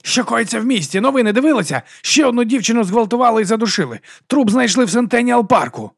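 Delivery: high, loud upset complaint; agitated rant. A narrator's reading. Man complaining to a colleague about the city's crime, agitated. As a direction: vent your alarm at the news.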